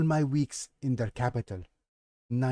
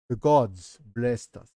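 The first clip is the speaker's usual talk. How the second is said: slower, louder mock Russian accent; 5 dB louder, slower than usual. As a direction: lean harder into a Russian accent. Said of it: "very, very sus Russian accent".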